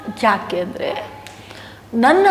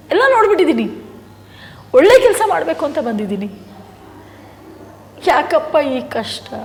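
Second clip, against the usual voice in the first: anguished outcry; 4 semitones higher than usual. Real, not acted. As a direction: cry out the injustice of it all. Pained outburst about his hardship.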